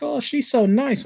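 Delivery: high-pitched mock gushing; sweet little high-voiced impression of a fan; gushing newcomer. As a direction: imitate someone charmed on first meeting. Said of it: "you'll be like".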